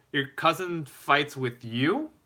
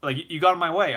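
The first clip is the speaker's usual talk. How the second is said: higher-pitched mock protest; retold yelling; 5 semitones higher, 3 dB louder than usual. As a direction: imitate an indignant objector, mildly. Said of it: "he was yelling".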